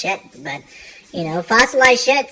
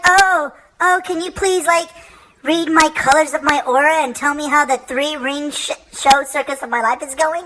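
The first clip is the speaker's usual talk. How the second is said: high, pleading mock lady; 6 semitones higher than usual. Lady begging the psychic for a reading, high pleading. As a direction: beg sweetly for an aura reading. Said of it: "she was like".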